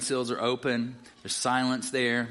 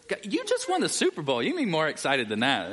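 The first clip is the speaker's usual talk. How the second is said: mock exasperation; 4 semitones higher than usual. Real, not acted. Teasing quiet Chiefs fans.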